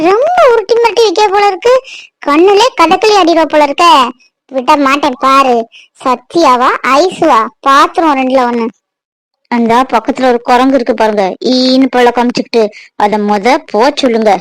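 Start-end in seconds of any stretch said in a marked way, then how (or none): 4.5-8.6 slow grim threat. Acted. Wife grimly threatening, slow low. 9.5-14.3 low jealous grumble. Acted. Wife jealous, low muttered.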